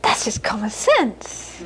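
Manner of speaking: slow, laughing, dismissive mother; matter-of-fact mother. Retold or imitated. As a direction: shrug it off slowly with a laugh. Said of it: "She'd say".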